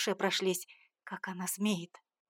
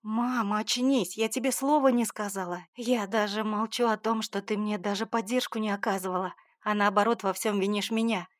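angry. Acted. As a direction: snap back at her in anger. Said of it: "Разозлилась я".

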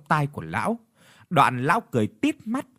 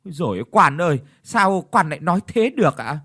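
high, louder, mock-wailing plea; wailing widows; 4 semitones higher, 4 dB louder, faster than usual. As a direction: beg the mandarin in a hammed-up lament. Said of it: "Ba mụ lại khóc lóc".

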